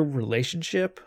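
"relationship" said with a rising, questioning tune. Real, not acted. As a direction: end "relationship" on an upward question lilt. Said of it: "I like the questioning tone in that word".

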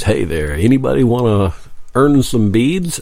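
lightly imitated band frontman; a hint of rock-show emcee; rock and roll voice. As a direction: tease the crowd like a rock singer. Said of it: "in that rock and roll voice".

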